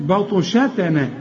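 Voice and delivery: "بطشتنا" with thin "shatene" ending; light letters. Shown as a demonstration. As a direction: keep "بطشتنا" light after the heavy ط. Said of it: "رقق".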